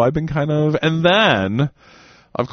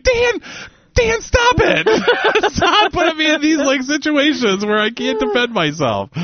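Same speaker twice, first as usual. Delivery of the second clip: exasperated colleague. Retold or imitated. Quoting the faculty woman begging Dan to stop, very high mock whine. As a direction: beg him to stop in a shrill mock protest. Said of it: "And she was like".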